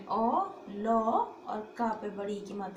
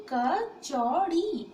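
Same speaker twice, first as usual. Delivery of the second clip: कचौड़ी drawn out very slowly and louder; slow emphatic model; 4 semitones higher, 5 dB louder, much slower than usual. Shown as a demonstration. Teacher to students, modelling कचौड़ी slowly. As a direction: stretch every syllable of कचौड़ी, loud and clear. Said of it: "क्या है ये?".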